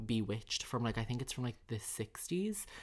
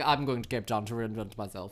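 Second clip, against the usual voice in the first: mock South African accent. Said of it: "she was from South Africa".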